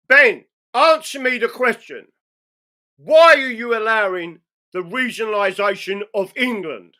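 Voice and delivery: loud, insistent demand; heckling. Real, not acted. Heckler demanding an answer from Ben, loud. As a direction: press him hard for an answer.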